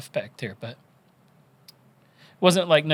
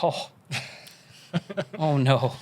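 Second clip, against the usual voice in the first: breathless whispered oh no, slow; stunned whisper; slower than usual. Retold or imitated. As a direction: whisper it in shock, half laughing. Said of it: "And I was like".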